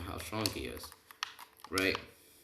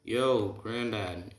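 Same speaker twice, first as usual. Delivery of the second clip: long drawn-out, slightly raised call; stretched-out mock yell; 3 semitones higher, 4 dB louder, much slower than usual. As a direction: holler it out slowly, only half shouting. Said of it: "Then he screams".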